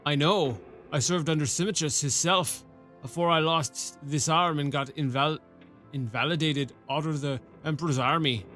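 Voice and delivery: put-on a rough rural-British-ish sergeant accent, loosely done; half-baked rustic soldier accent; gruff old soldier accent. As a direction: play the one-armed sergeant with a put-on country burr. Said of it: "I don't know what accent".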